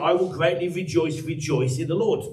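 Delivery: rejoice said twice with lift; emphatic doubling of "rejoice"; emphasis on rejoice. Shown as a demonstration. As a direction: lean on each "rejoice". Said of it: "He puts an emphasis on the word rejoice".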